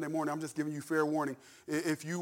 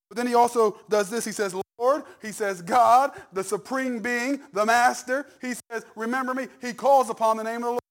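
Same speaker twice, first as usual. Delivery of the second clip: raised, emphatic preacher's delivery; impassioned preaching; 6 semitones higher, 8 dB louder than usual. Real, not acted. Pastor expounding the thief's words on the cross, preaching with fervor. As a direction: drive each title home to the congregation.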